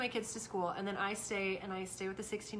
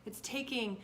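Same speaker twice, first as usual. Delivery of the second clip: lecture; 4 dB louder than usual. Retold or imitated. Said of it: "I launched into this whole".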